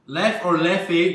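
"Left or Leffe" said slowly, weighing one against the other; contrasting pronunciations. Shown as a demonstration. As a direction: spell out "Left" and then "Leffe" as two syllables. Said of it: "Left or Leffe, we're not too sure".

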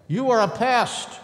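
storybook rabbit shouting, loud and high. A narrator's reading. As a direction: yell it at the garden thief. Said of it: "shouted Rabbit".

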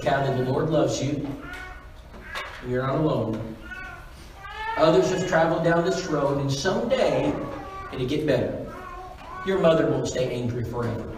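calm elder's comfort, retold; gentle reassurance. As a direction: console a hurting girl, unhurried. Elders comfort a crying girl.

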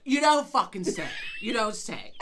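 mock-amazed comeback; sarcastic retort. Real, not acted. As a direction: drip with sarcasm.

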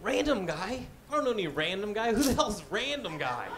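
puzzled, questioning rise and fall; mildly baffled self-questioning. Retold or imitated. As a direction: wonder it to yourself, a touch incredulous. Puzzled, talking to himself about caller.

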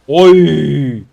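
loud cry of "oy"; sudden loud exclamation. Real, not acted. Streamer reacts to a moment in the game, sudden loud cry. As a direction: cry out suddenly at full volume.

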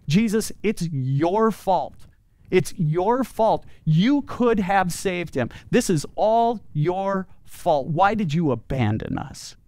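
slow, pointed blame, lightly acted; a hint of a grieving sister's hurt accusation; ticked-off Martha. Martha confronting Jesus at the road, slow mild accusing. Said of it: "Martha was so ticked".

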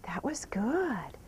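slow, whispered "That was good."; whispered praise. Real, not acted. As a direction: breathe "That was good." slowly with no voice.

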